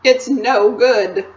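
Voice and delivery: slow, lightly voiced despairing faun; mournful faun.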